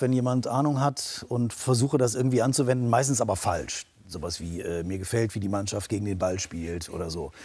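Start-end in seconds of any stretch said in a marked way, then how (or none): 4.8-7.3 football pundit phrases. Retold or imitated. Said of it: "Ich schnapp immer so ein paar Phrasen auf".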